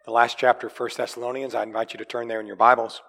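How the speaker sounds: strained, struggling voice; pushing through a sore voice; straining with effort. Real, not acted. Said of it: "I'm still struggling with my voice".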